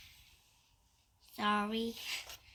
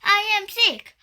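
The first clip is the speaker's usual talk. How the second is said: excited; 5 semitones higher, 8 dB louder than usual. Acted. Delighted at being sick.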